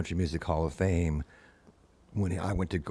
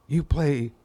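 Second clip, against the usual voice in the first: raised, slowed mock of a singer's accent; 6 semitones higher, 3 dB louder, slower than usual. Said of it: "he said in his accent that he has".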